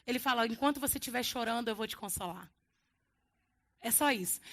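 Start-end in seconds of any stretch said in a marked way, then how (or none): 0.5-2.5 gentle consolation. Acted. Jesus promising comfort to the weeping, softly.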